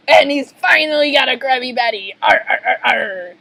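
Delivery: loud pirate crow and cackle; gloat, then laugh in barking arrs; triumphant sea-dog villain. Acted.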